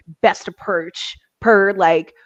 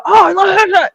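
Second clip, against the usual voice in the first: mock delight; 12 semitones higher, 5 dB louder than usual. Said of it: "it's never like".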